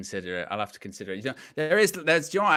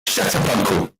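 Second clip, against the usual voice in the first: a touch louder, punchy shut up uncle; lightly mock shut up; 4 dB louder than usual. Shown as a demonstration. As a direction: drop it like a catchphrase. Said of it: "You gotta drop a shut up".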